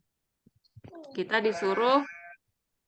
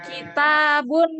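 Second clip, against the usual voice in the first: raised voice, slowed for clarity; louder; 3 semitones higher, 5 dB louder than usual. Real, not acted. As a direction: project clearly to a listener who can't hear. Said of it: "Nggak kedengeran".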